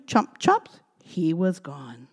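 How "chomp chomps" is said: louder, punchy chomp chomp. A narrator's reading. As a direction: bite the words like chomps. Fox gobbling cookie.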